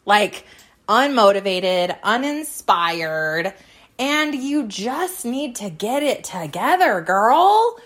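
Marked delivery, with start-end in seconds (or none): 4.0-7.8 sassy question. Real, not acted. Playful question to listeners.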